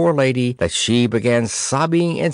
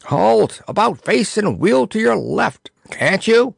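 put-on old soldier roaring orders at the king; 9 semitones higher than usual. A narrator's reading. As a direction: bellow at him like a drill sergeant. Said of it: "roared the old soldier".

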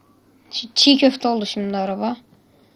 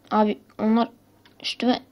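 toy robot voice. Pretend. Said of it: "Robot gibi konuştum bilerek".

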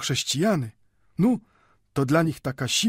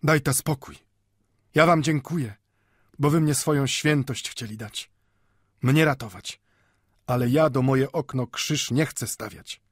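put-on higher, impassioned old man's declaration; hard, ringing voice; 6 semitones higher than usual. A narrator's reading. Old Jew refuses to hide behind a cross, hard ringing voice. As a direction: speak out firmly, pitch lifted, ringing like a bell. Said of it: "mówił twardym, brzmiącym jak dzwon głosem".

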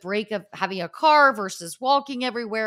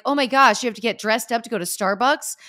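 incredulous retold disbelief; 3 semitones higher, 5 dB louder than usual. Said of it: "I was like".

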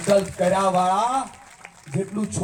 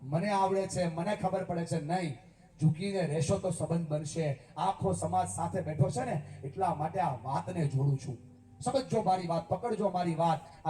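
much softer, close and confiding sermon; quiet preaching; 9 dB quieter than usual. Acted. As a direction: draw them in, softly. Intimate advice to whole community.

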